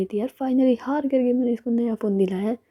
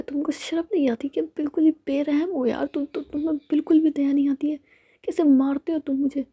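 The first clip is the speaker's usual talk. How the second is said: higher, sulky complaint; whiny complaining girl; 6 semitones higher than usual. Retold or imitated. Ritika सैमी से शिकायत करती है, ऊँची आवाज़ में रूठकर. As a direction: whine about being hurt, fishing for sympathy. Ritika complains about being hurt.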